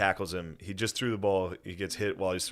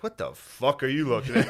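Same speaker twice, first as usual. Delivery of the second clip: mock outburst; 5 semitones higher, 4 dB louder than usual. Acts out spazzing on O'Connor.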